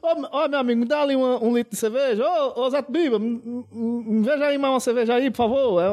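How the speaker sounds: high, hammed-up Pernambuco bar-regular voice; strong northeastern Brazilian accent; strong Caruaru accent. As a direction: call for beer like a local at the bar. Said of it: "O sotaque mais forte é quando o cabo tá aqui em Caruaru".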